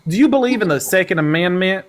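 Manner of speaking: drawling mock country accent, lightly done; country accent slipping in and out; put-on country accent. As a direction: play a hick country caller-host accent. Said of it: "whatever accent that was".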